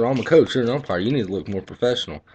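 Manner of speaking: mocking the coach. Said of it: "He said".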